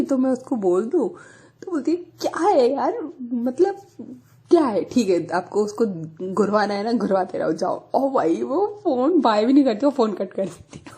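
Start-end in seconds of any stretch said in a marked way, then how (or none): 2.0-7.8 angry retort. Retold or imitated. Jealous friend snapping at her on the phone, irritated. Jealous Vani snaps, hangs up.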